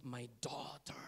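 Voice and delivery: low, whispered endearment; tender whisper. Retold or imitated. Jesus calling the rejected woman his daughter, tender whisper.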